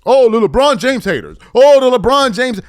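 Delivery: mocking. Mocking Arenas's phrase.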